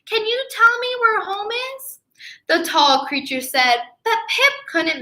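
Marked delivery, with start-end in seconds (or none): 0.0-2.0 high loud call across a distance; little penguin hailing the dog sled. Acted. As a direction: call out to far-off strangers. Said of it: "Pip called".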